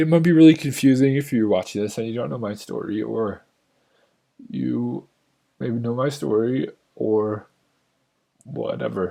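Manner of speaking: crying while talking. Recording a video in your office, talking to viewers while crying. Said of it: "but I'm crying".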